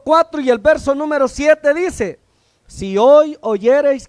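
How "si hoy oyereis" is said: preached scripture. Real, not acted. Preacher quoting Hebrews 4:7.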